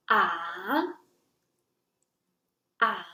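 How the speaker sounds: "ah" dipping to the bottom, then turning up; low, turning "ah"; third tone. Shown as a demonstration. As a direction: drop "ah" very low, then lift it. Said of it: "it is a low tone that falls to the lowest level".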